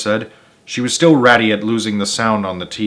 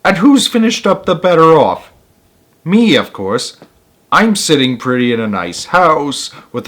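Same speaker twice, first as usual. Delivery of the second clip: a touch of a louder self-satisfied boast; smug boast; 4 semitones higher, 4 dB louder than usual. Acted. Wife boasting to the teacher, a touch louder. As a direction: crow about her life.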